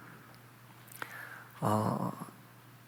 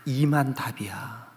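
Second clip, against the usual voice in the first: slow, hushed, half-whispered answer; quiet character reply; 5 semitones lower, 7 dB quieter, slower than usual. Acted. The number two answering its scolder, quiet and slow. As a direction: drop to a soft, lightly acted murmur. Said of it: "이에게서 돌아오는 답은".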